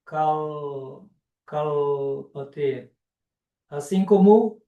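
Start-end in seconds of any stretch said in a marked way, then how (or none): 0.0-2.3 cal drawn out on a held, curled-tongue L; retroflex L. Shown as a demonstration. Teacher urges care with the sound, retroflex L. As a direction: lower cal, lingering on the retroflex L. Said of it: "tomar esse cuidado".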